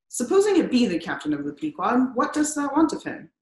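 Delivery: put-on old whaling captain questioning a newcomer; gruff old sea captain demanding. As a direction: challenge the stranger at the tent door. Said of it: "he demanded".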